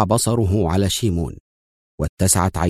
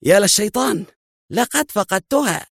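a dazed, high exclamation; as if the floor just dropped away; shocked mutter of dismay, not shouted; stunned; 14 semitones higher than usual. A narrator's reading. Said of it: "وهو يقول في ذهول".

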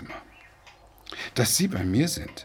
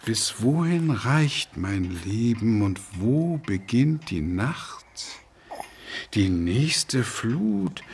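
reciting poem; slower than usual. Acted. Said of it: "Das ist Rilke".

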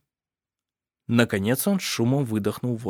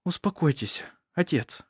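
softer, gentle hush; calm her father down softly; quietly; 5 semitones higher, 6 dB quieter than usual. A narrator's reading. Daughter quietly calming her father, soft. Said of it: "тихо сказала Вильяму".

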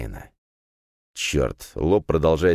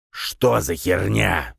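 boiling over; 3 semitones higher, much slower than usual. Acted. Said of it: "вновь вскипел".

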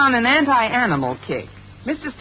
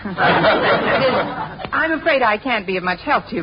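slow, laughing through the words; nervous laugh; slower than usual. Acted. Teacher hiding the cat from the principal, nervously laughing.

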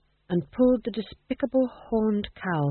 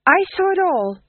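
simple fool; 11 semitones higher, 7 dB louder than usual. Acted. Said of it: "said the fool simply".

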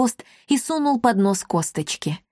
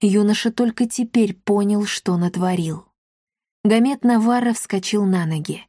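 ordinary delivery, nothing marked

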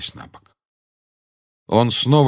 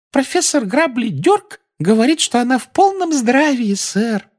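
very high squeaky house-elf; eager little elf squeak; christmas elf; 4 dB louder than usual. Acted. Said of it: "пропищал эльф".

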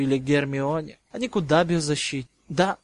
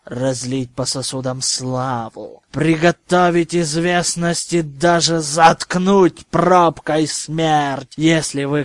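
sinister purr; 4 dB louder than usual. Acted. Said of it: "вкрадчивым и зловещим тоном".

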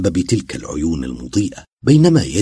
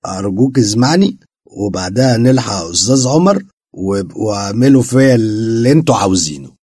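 tearful plea; 3 semitones higher, 6 dB louder than usual. A narrator's reading. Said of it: "دمعت عين مرتزقة".

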